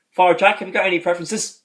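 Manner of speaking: light impression of a priest; Ted voice. Ted addresses Jack in retelling.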